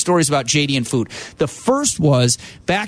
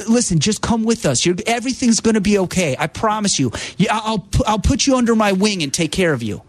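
higher, soothing imitation of a friend; reassuring J D; 4 semitones higher than usual. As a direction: promise to look after him. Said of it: "The reassuring".

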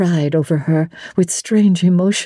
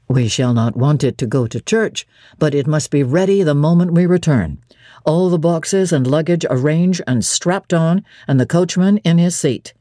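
lightly voiced commanding Rochester. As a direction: give firm orders. Rochester giving orders.

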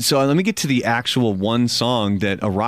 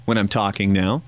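slight lisp from a missing tooth; lisping through a tooth gap; 4 semitones lower than usual. Real, not acted. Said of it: "you can even hear a li-, a bit of a lisp".

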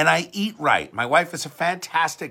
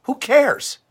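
dismissive; 9 semitones higher, 4 dB louder than usual. Real, not acted. Ranting dismissal after mock quote.

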